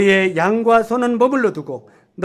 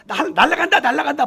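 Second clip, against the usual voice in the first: mocking laugh; 6 semitones higher than usual. Mocking rapture believers.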